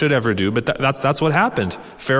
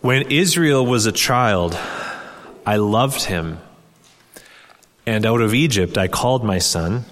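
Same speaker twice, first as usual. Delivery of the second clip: raised, measured reading of God's words; scripture reading; 2 semitones higher than usual. Acted. Preacher reading Hosea to the congregation, solemn and raised. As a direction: read the prophecy aloud with weight.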